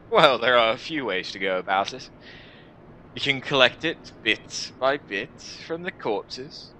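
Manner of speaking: lightly voiced jaded adviser; sardonic warrior. Warrior explains restoring humanity, lightly sardonic. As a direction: lay out the grim options with dry amusement.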